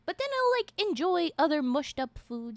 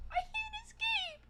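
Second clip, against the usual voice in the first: whispering; 5 dB quieter than usual. Real, not acted. Whisper while eating candy.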